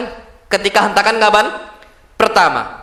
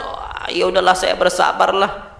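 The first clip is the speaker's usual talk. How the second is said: low, slow mock-resigned sigh of acceptance; imitating someone belatedly resigned; mock resignation; 5 semitones lower, 3 dB quieter, slower than usual. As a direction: give in with a lower, softened drawn-out line. Mourner's belated claim of patience.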